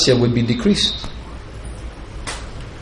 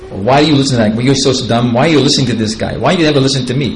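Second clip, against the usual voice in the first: mock nagging; 3 dB louder, faster than usual. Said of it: "Did she start nagging him".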